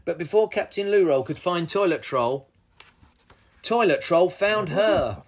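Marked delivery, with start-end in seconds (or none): none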